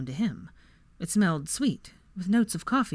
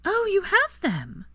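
excited gasp; 14 semitones higher, 4 dB louder, slower than usual. A narrator's reading. Granger excited by contraband.

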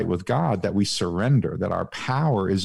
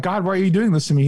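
whiny complaint; 8 semitones higher, 4 dB louder, much faster than usual. Pretend. Voices a complaining believer.

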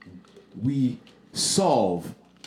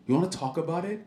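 mock calm voice; 5 dB quieter than usual. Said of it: "in this calm voice".

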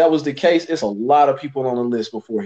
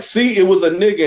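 higher-pitched imitation of someone's gotcha; mock I-told-you-so; 6 semitones higher, 3 dB louder than usual. Retelling someone's hasty conclusion, mock I-told-you-so. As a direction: quote a smug commenter, pitched up. Quoting somebody he disagrees with.

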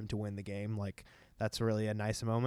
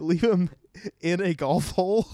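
incredulous; 7 semitones higher, 8 dB louder than usual. Retold or imitated. Mocking disbelief at Larry Bird's line.

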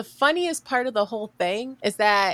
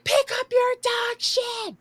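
high mock scream; retold scream; 14 semitones higher than usual. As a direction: yell it at her again. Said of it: "I started screaming again".

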